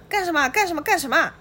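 high, repeated yelp of alarm; shouting. A narrator's reading. Li Guangtou crouching on the bench, yelling at his attackers in panic. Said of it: "嘴里还在喊着".

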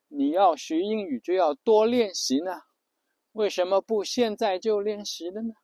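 high, slow coaxing voice of a flirt; flirty woman. Retold or imitated. The other woman texting the husband, in a coaxing high voice. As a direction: lure him in sweetly, drawing it out.

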